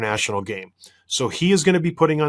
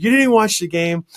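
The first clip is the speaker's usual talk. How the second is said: louder, higher accusation; accusing; 7 semitones higher, 4 dB louder than usual. Retold or imitated. Husband accusing wife who skipped the game, raised voice. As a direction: throw it at her.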